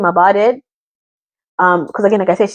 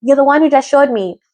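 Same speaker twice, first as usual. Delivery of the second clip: retold protest, pitched up; mock yelling; 5 semitones higher than usual. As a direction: act out her yelling without raising volume.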